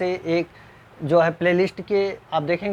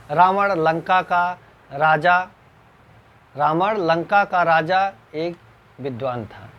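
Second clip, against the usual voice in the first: slow dictation; slower than usual. Shown as a demonstration. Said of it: "इसी क्रम में आप आगे देखते हैं".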